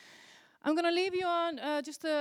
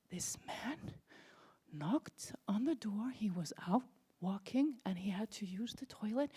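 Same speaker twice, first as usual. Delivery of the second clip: hushed, slowed conspiratorial aside; a soft hint of a whisper; storytelling whisper; 5 dB quieter than usual. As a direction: lean in and whisper the secret. Secretive retelling of the stranger.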